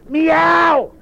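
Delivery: a high, loud, insistent meow. Acted. Cow meows again, insisting.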